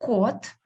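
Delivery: "Кот" with a clear, full O; clear stressed O. Shown as a demonstration. Teacher explaining the single O, "Кот" with clear stressed O. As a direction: say "Кот" with a plain oh, never ah. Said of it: "It's clear O".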